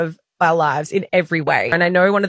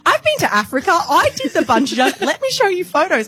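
imitating Keisha; 11 semitones higher than usual. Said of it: "And then Keisha goes".

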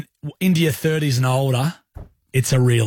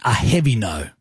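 "heavy" carries the emphasis; stress on heavy; 3 semitones lower than usual. Shown as a demonstration. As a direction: lean hard on "heavy", then let "no" fall. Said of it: "Emphasis on the heavy".

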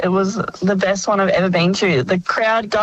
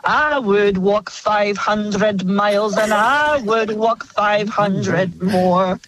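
Scottish band impression; slower than usual. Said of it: "an impression that I bring out at karaoke".

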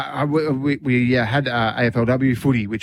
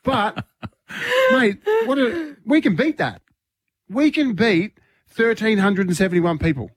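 excited; 9 semitones higher than usual. Real, not acted. Excited about beating record.

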